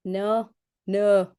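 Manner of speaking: abandoned try at a Yorkshire accent; attempted Yorkshire accent. Shown as a demonstration. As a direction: hesitantly feel for a Yorkshire accent. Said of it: "do your Yorkshire".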